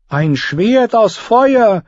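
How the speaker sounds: high, slow awed cry; cried out. Acted. Queen crying out at the flaming sword, high slow awe. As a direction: cry it out in wonder. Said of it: "rief Selyse".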